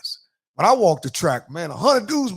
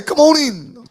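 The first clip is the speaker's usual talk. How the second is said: high, loud quoted holler; raised-voice movie-line imitation; quoting his man; 8 semitones higher, 10 dB louder, slower than usual. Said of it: "Like my man say".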